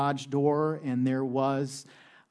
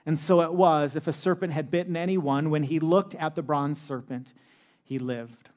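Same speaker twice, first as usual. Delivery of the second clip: slightly raised, projected Bible-reading voice; scripture reading; 2 semitones higher, 4 dB louder than usual. Acted. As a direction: read scripture out to a congregation. Reads scripture aloud to congregation.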